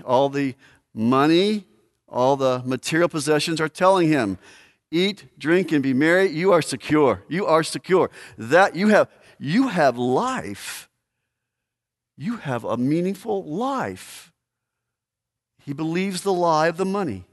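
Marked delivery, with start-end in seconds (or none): 4.9-14.3 slow, coaxing reassurance that lengthens to the end; a soothing tempter whispering security; voice of the lie. Acted. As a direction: lull him with false comfort. Voicing the lie money tells.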